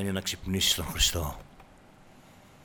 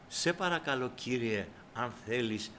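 soft, understated mock plea; timid polite request; 6 dB quieter than usual. Preacher acts a too-polite Peter asking the Lord, soft mock plea. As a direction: ask meekly, well under preaching volume. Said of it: "Αυτό έλεγε".

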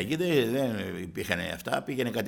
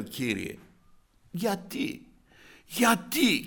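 retold crying prayer, rising higher on each why; tearful plea; 5 semitones higher, much slower than usual. Man alone in his shop asks the Lord why, imitated tearful pleading. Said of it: "Να κλαίω και να λέω".

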